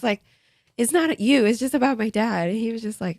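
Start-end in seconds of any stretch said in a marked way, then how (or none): 0.8-2.5 high-pitched, upset reassurance; retold tearful explanation. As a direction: reenact explaining through tears, pitched up. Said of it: "I just broke down and started crying".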